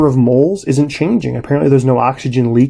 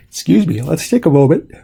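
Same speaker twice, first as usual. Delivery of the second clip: words stretched by a real yawn; through a yawn; 3 semitones higher than usual. Real, not acted. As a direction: yawn as you say it. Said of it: "Pardon me, my yawn".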